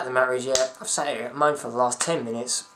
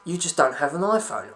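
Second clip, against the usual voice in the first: mock ad voice; 3 semitones higher than usual. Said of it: "the guy on the commercial".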